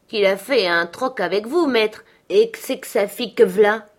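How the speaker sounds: forceful rustic verdict to his master; dialect-speaking servant. Acted. Joseph gives his verdict.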